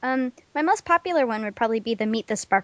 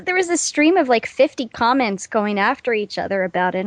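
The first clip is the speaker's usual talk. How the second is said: normal talking voice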